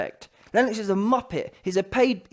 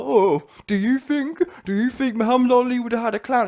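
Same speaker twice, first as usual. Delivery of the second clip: higher, put-on mimicry; mocking a pundit; 4 semitones higher than usual. Imitating a pundit defending Lennox over Ali, mocking. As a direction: parrot his question in a higher mock voice. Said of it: "Spencer Fearon included, talking about".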